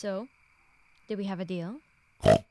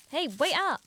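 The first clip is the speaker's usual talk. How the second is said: raised, louder call; calling after; 4 semitones higher, 5 dB louder than usual. Acted. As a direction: call out to someone walking off. Calls after pig wandering off.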